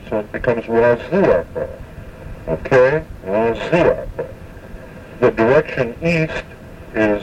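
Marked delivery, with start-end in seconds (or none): 0.6-1.7 wa-ZI-ata, Waziata accented on its second syllable; stress on second syllable. Shown as a demonstration. Teacher showing the compound word for north, Waziata stressed on ZI. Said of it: "first to the second syllable". 3.2-4.3 slow wa-ZI-ata, Waziata with the second syllable leaned on; stress on second syllable. Shown as a demonstration. Teacher repeating the compound word for learners, Waziata slowly stressed on ZI. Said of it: "first to the second syllable".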